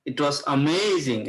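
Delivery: "amazing" with its middle syllable stressed and drawn out. Shown as a demonstration. Teacher shows students how the track stressed it, stress on "amazing". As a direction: lean on the MAZ in "amazing". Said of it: "যে stress গুলো ওরা দিল".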